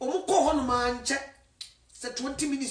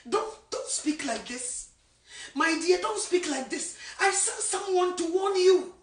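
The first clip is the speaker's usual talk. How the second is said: gentle rebuke; 3 semitones higher than usual. Retold or imitated. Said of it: "ɔbɛka kyerɛ wo sɛ".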